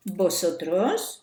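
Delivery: slow, deliberate Vosotros with every syllable laid out; stressed pronoun. Shown as a demonstration. Teacher to pupils, slowly sounding out the missing pronoun. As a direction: spell out Vosotros slowly so the class hears it. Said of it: "je ne vais pas oublier le pronom personnel sujet".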